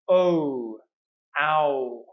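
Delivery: "o" and "ow" as drawn-out, separate diphthongs; repeat-after-me vowel drill. Shown as a demonstration. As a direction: model each gliding vowel for learners to echo. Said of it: "Please repeat after me".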